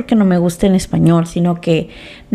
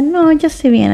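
high daughter voice; 7 semitones higher than usual. Retold or imitated.

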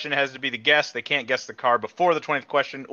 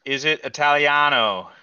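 mock Italian accent; 4 dB louder than usual. Host echoes a question about the car, mock Italian accent. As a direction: play up the Italian vowels.

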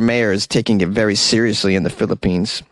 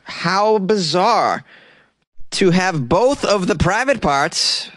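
amazed; 6 semitones higher, slower than usual. Real, not acted. Amazed at intersex fact.

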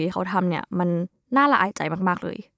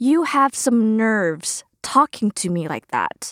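mock scolding; much slower than usual. Shown as a demonstration. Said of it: "ลองเป็นตัวอย่างประโยคนะคะ".

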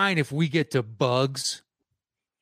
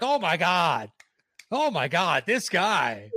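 retold amazed crew; 4 semitones higher, slower than usual. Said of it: "the crew was like".

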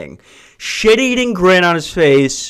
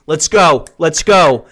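impatient dad; 4 dB louder, slower than usual. Retold or imitated. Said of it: "dad ... going".

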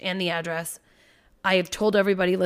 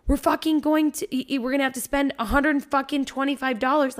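exasperated plea; 7 semitones higher than usual. Retold or imitated. Pleading with buddy over costume.

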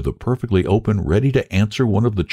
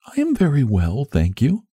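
put-on high-pitched, earnest child voice; sweet little girl; 7 semitones higher than usual. A narrator's reading. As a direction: voice a small girl, high and concerned.

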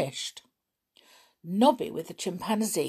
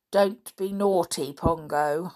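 stern; 4 dB louder than usual. Acted. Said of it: "said Nobby in a stern voice".

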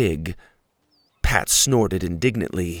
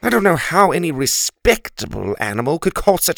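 louder, shivery complaint; grumbling turkey; 3 dB louder than usual. Acted. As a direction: shiver and gripe. Turkey complaining about drafts.

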